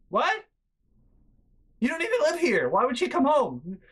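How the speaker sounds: high, disbelieving what; incredulous. Retold or imitated. Brother on the phone, disbelieving the sister's demand. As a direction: play your own stunned reaction. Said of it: "And I'm like".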